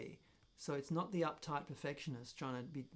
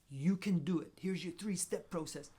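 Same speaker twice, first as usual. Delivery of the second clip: mock American accent; 3 semitones higher, 4 dB louder than usual. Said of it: "I did that in an American accent".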